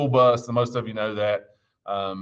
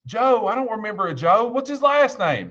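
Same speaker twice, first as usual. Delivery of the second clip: exasperated disbelief; 13 semitones higher than usual. Retold or imitated. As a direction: push the kid for an answer, fed up. Driver questions kid, exasperated.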